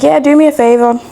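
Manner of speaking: a hint of his Caribbean accent; Caribbean man's accent. Man presses her for a favor, light Caribbean accent. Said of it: "we're in Brum, so the accent".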